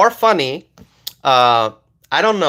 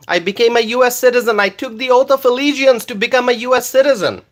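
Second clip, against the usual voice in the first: yelling; 5 semitones higher than usual. Real, not acted. Excited immigrant hollering his citizenship story to chat. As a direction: keep raising it, excited and insistent. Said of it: "quit yelling".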